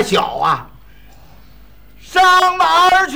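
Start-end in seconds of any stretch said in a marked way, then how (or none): 2.0-3.2 shouting to a deaf man. Acted. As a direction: call out so the old man hears. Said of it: "说话大点声儿".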